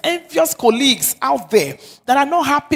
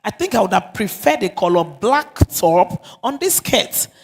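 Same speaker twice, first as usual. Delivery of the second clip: soft, gentle advice on her outfit; 2 semitones lower than usual. Shown as a demonstration. Husband softly telling wife her clothes don't suit, gently. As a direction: say it tenderly, no sting. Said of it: "tell her in a soft tone".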